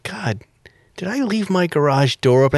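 hushed, breathy whisper to himself; whispered worry. Retold or imitated. Alone at night, fretting about the garage, whispered. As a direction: whisper the doubt under his breath.

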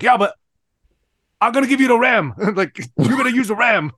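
loud, high mock Chinese accent; Lou. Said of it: "he has the thickest Chinese accent".

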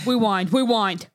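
rewind, rewind said as wiwand; says w for r. Real, not acted. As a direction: rewind with w instead of r. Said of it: "I can't say my R's".

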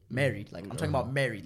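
"married" set apart and stressed hard; emphatic stress on married. Real, not acted. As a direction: drive home the word "married". Repeats word to drive it home.

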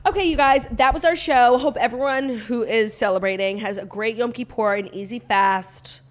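fast, upbeat host sign-off; show outro. Acted. Podcast outro read.

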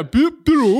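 high, loud mock meow; weird cat call. Echoing the strange European cat sound, high mock meow. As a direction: cry it out like an odd foreign cat. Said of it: "how the fuck did you get that from a cat meowing".

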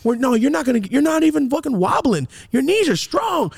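high, rapid-building self-encouragement; hyped inner pep talk. Retold or imitated. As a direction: psych yourself up like your own cornerman. Hyped inner voice cheering himself.

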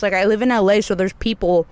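talking while chewing candy; mouth full. Real, not acted. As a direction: chew through the words. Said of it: "let me stop chewing on the Nerds".

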